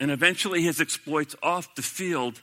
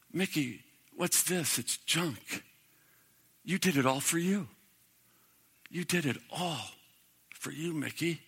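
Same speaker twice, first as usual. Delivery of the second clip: much softer, slow, grave rebuke; quiet voice of Jesus; 6 dB quieter than usual. Acted. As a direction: speak Jesus's verdict gently but firmly. Jesus voiced judging Mantle.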